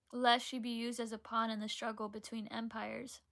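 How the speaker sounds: measured, even read-aloud voice; reading a book blurb. Acted. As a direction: read the back cover aloud evenly.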